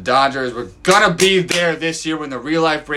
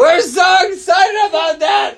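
much higher, loud cheering shout; excited shout; 4 dB louder than usual. Acted. Father cheers along with his daughter, shouting excitedly. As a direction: shout it out with the kid, overjoyed.

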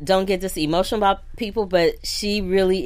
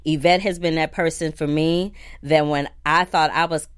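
ordinary talk, nothing marked

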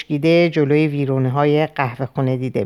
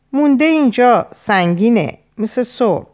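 high, pressed complaint of discomfort; distressed complaint; 7 semitones higher, 3 dB louder than usual. A narrator's reading. Choking eater points to the chest, mild distress. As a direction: complain that it is stuck, pitch up.

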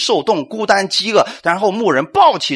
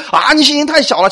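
mock reproach; 9 semitones higher, 5 dB louder than usual. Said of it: "我们说".

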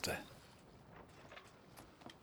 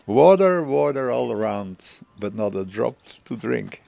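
poem recited. Retold or imitated. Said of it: "twee zinnetjes in die ik nooit ben vergeten".

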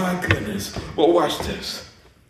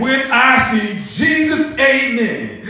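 slow, drawn-out exultant line; fervent refrain; 5 semitones higher, 3 dB louder, slower than usual. Real, not acted. Preacher repeating an old song's line, slow fervent refrain. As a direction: stretch it out high like a refrain.

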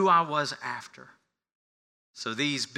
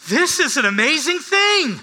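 a lightly voiced beggar, higher, needling the experts; mock amazed beggar; 12 semitones higher, 10 dB louder than usual. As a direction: play it wide-eyed to mock the bigwigs. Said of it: "He says".

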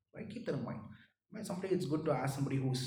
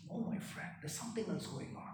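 hushed; 6 dB quieter, faster than usual. Real, not acted. Sudden drop after climax.

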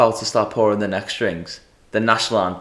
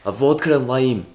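put-on light Scottish accent, slightly higher; 4 semitones higher than usual. Scottish customer ordering at the bar, Scottish accent. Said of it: "I believe that was a Scottish accent".

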